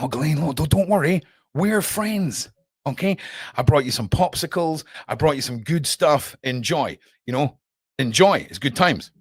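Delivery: butter her up gently; mock sweet. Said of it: "They're like".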